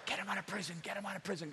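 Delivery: hushed churchy whisper of a prayer; whispery prayer. Shown as a demonstration. Preacher demos the whispered prayer for the congregation. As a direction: whisper it like Christians praying. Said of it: "do it like the whispery voice".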